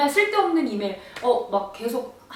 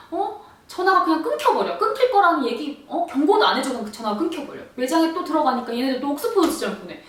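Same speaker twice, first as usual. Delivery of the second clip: whiny fake-cry rant; 4 semitones higher than usual. Pretending to cry to the clerks, whining. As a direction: wail your grievances theatrically.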